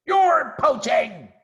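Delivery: high, loud, slow outraged shriek; outraged at the thieves. Acted. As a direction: Rat shrieking at the intruders. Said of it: "shrieked Rat".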